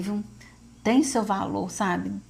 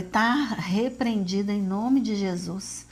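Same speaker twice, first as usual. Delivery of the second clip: slow, measured rebuke, retold; repreensão religiosa; slower than usual. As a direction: rebuke it slowly in prayer, without raising the voice. Mãe repreende a fala da mulher. (repreensão pausada, em oração)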